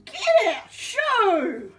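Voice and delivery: playful demo for the pet; laughing shoo. Shown as a demonstration. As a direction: giggle while showing how to shout it. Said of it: "You tell 'em".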